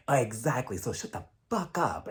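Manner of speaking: low, soft sneer; quietly cutting her off; mock cold Erica. Erica to Sutton, low hushed sneer.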